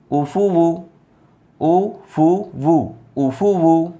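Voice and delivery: drawn-out syllables, very slow; slow syllable demo. Shown as a demonstration. Teacher sounding out pesh syllables, very slow. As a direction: sound each one out slowly. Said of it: "वाव पे पेश वू".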